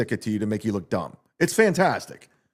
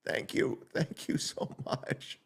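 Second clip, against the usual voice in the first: whispered thanks; 13 dB quieter, slower than usual. Acted. Mock thanks after hype.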